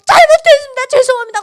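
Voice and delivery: very high, loud, acted-out pleading; frantic begging. Yuna begging before an angry God, high frantic apology. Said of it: "그러고 막 비는데".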